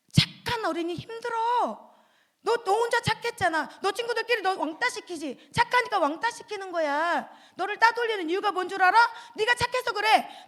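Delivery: put-on coaxing tempter pushing the kid to be mean; the tempter egging a child on; devil's voice. Devil voice urging to be bad.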